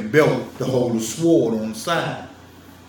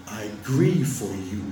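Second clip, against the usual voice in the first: mock biblical voice; 3 semitones lower than usual. Shown as a demonstration. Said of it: "I'm using the voice that I think that they was sounding like".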